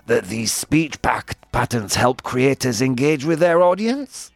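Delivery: creaky vocal fry swinging up on "audience"; hammed-up fry with "audience" rising like a question; TikTok voice. Shown as a demonstration. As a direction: parody creaky uptalk. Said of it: "practice talking like this".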